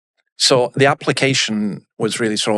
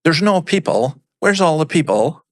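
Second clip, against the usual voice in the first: put-on Brora accent; 5 semitones higher than usual. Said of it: "says to his mum in a Brora accent".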